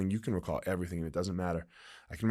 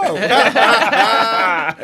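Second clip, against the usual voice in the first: a big burst of real laughter; loud laugh; 10 semitones higher, 10 dB louder than usual. Real, not acted. Fighter laughing after retelling his comeback, a loud real laugh.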